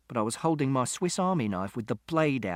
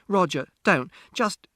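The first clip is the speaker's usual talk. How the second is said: raised, higher voice; pleading shout; 6 semitones higher, 4 dB louder than usual. A narrator's reading. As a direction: call out to stop him, cut short. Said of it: "Mother shouted".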